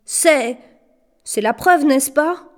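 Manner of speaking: high, hesitant, frightened stammer; terrified squeak. A narrator's reading. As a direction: squeak it out nervously. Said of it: "il couina". (couinement terrifié et hésitant)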